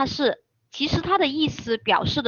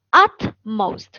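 very slow, letter-by-letter repeat; spelling out; 4 dB louder than usual. Shown as a demonstration. Teacher repeats the spelling for students, spelling out slowly. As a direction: draw out each letter for learners. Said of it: "这个单词怎么拼写的".

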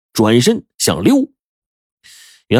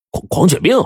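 stunned stammer; 8 semitones higher than usual. A narrator's reading. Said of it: "花脸狼说".

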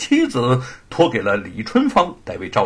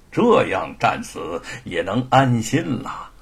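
lightly voiced old veteran; 3 semitones lower than usual. Old man explains his wish to see grandson, lightly acted earnestness. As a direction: confide like an old soldier resigned to battle. Old father-in-law character speaks.

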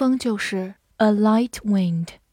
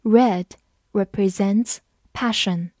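slow reading. Shown as a demonstration. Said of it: "好，我们慢读一遍。".

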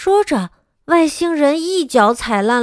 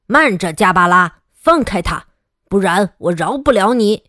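lower, firm superhero command; heroic dad voice; 4 semitones lower than usual. Acted. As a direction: stand tall and order the monster off. Hero dad confronts the monster.

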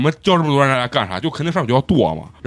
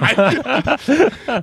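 high, wheezing laugh at the memory; burst of laughter; 12 semitones higher than usual. Real, not acted. Laughing at being kicked. (高声大笑)

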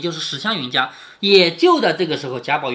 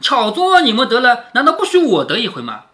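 mock teasing; 4 semitones higher, 5 dB louder than usual. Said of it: "晴雯就笑着说".

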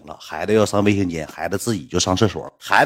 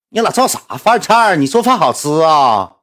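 mock scornful retort; 7 semitones higher, 5 dB louder than usual. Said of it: "小雨说".

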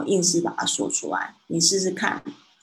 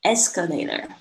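"escalator" with the stress on ES; "escalator", front-stressed; stress on first syllable. Shown as a demonstration. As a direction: open strongly on "es" in "escalator", the rest light. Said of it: "因为它的重音是在前面".

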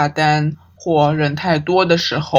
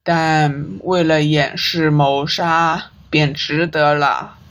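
slow, level, cold remark; said flatly. Acted. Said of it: "淡淡的说出这句话".

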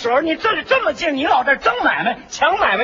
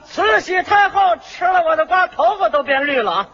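带点叫卖腔的夸张吆喝; 像摆摊卖瓜那样吆喝出来; 瓜贩吆喝; 2 semitones higher than usual. Acted. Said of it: "你听着吆喝呀". (带点吆喝味儿的叫卖)

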